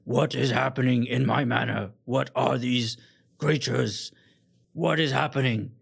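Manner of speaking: loud, demanding, stretched out; outraged lord. Acted. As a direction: bark the questions at the room. GM voices angry lord.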